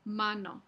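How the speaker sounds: mano with a tongue-tip n; mano, the n at the ridge; alveolar n. Shown as a demonstration.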